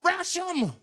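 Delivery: rally everyone to attack; mock heroic scream; screaming charge. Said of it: "He screamed out".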